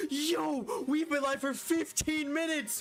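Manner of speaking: excited squeal. Real, not acted. Shiny appears on stream.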